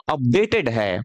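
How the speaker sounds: अपडेटेड said with weight, pitch dropping low; अपडेटेड है pressed home with a low falling tune; stress on updated. Shown as a demonstration. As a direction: lean hard on अपडेटेड, then fall. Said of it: "थोड़ा जोर देके बोल रहा हूं".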